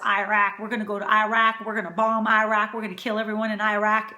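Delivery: lightly imitated politician, Iraq as eye-RACK; low, mild mock of a president's threats; George Bush. Cook mocking the leading mispronouncer, lightly imitated. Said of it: "contender who says".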